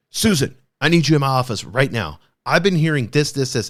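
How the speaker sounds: mildly bossy demand, a little forceful; mock dictator boss. Boss summoning Susan to the office, mock dictatorial. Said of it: "That's being a dictator".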